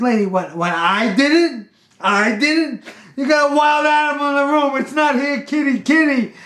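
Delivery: loud, high-pitched defensive retort; indignant protest. Retold or imitated. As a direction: argue back at full volume, acting it out. Arguing back at screaming woman.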